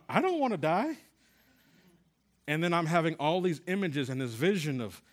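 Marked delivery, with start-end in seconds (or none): 0.1-1.0 high, loud retold cry of fear; patient in the hospital bursting out in fear; panicked outburst. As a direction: blurt it out in sudden panic. I'm like, out of my mouth.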